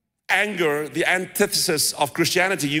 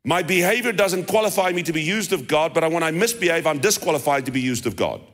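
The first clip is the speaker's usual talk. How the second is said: over enunciating. Shown as a demonstration. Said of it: "Let me say that slowly".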